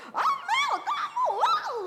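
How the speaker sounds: very high shrieking scold, far above normal; screeching at daughter. Retold or imitated. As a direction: shriek her name like an angry mother losing it. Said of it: "saya udah do".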